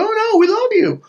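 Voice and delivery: loud, high falsetto denial; mock gushing reassurance; fake affection. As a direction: mimic false friends protesting way up high. Mimics false friends' denial.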